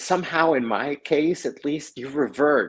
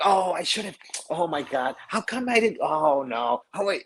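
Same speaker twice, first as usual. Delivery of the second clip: groaning at himself; 5 semitones higher than usual. Retold or imitated. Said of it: "I'm groaning, I'm like".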